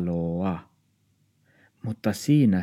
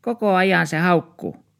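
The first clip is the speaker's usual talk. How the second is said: put-on high, louder old woman's complaint; complaining old woman; 11 semitones higher, 4 dB louder than usual. Old neighbour complains at the door, high and grumbling. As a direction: moan about the barking. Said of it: "Arja Muori sanoi".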